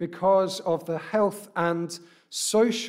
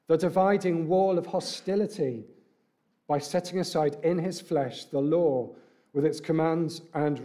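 scripture reading. Acted. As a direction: read the passage solemnly to the congregation. Reads scripture aloud.

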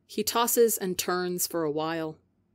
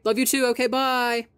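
high, loud hurried goodbye; shouting; 6 semitones higher, 4 dB louder than usual. Acted. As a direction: shout it out before hanging up. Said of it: "Tubbo shouts".

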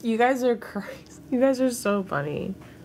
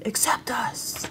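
put-on defiant kids' retort; 6 semitones higher, 4 dB quieter, slower than usual. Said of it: "And we'd be like".

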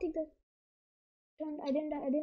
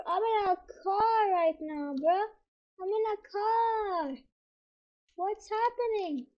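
panicked whine; 4 semitones higher, slower than usual. Real, not acted. Lagging chaos, crying sound.

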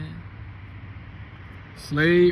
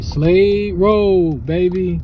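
excited drawl; 4 semitones higher, 5 dB louder, much slower than usual. Real, not acted. Excited arrival at family road.

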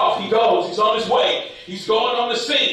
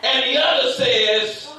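preaching; 2 semitones higher than usual. Real, not acted. Preaches at full force.

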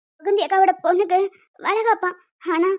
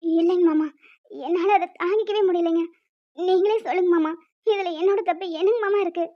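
tearful wife. Acted. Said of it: "நீ பாருடா, நீ அழாத".

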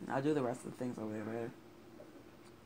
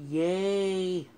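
cheer; 6 semitones higher, 9 dB louder than usual. Real, not acted. Gets brought in, cheers.

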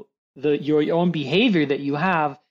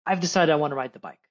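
eager little daughter; 3 semitones higher, faster than usual. Pretend. Daughter announcing to her daddy, mock-eager. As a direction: imitate a child rushing up with news. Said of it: "she comes to you and she's like".

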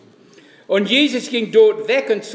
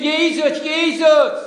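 high, louder call of his name; calling after him; 6 semitones higher, 3 dB louder than usual. A narrator's reading. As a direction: call after Jesus as he walks away. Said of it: "hinter ihm her geschrien". (lautes Rufen hinter ihm her)

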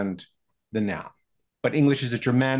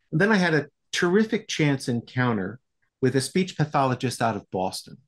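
ordinary delivery

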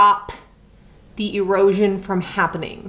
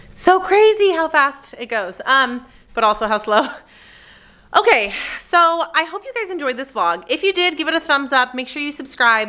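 usual speaking voice

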